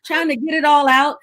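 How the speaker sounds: high-pitched excited telling. Real, not acted. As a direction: lift the voice high.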